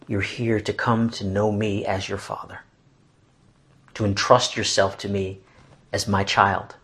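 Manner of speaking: lightly voiced reassuring father; fatherly voice. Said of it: "fatherly voice that gives us all that confidence".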